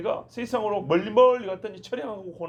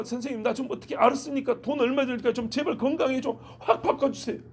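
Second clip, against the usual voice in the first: lightly acted patient's plea, pitched higher; urgent pleading; 4 semitones higher than usual. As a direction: beg the doctor, mildly acted, voice raised in pitch. Acted patient begging a doctor. (살짝 높은 음으로 연기한 간절한 애원)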